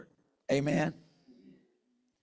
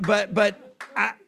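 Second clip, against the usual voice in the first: fighting back tears; 4 semitones higher than usual. Real, not acted. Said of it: "and I'm trying not to cry".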